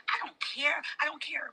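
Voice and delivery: real tearful whisper; crying whisper. Real, not acted. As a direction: whisper it through tears. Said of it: "I'm crying by my godmama".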